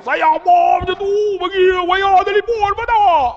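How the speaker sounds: loud, high-pitched outburst; mock shout. Preacher re-enacts a scolding over the wire, high shout. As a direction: cry it out high and loud in protest. Imitating shouting in childhood tale.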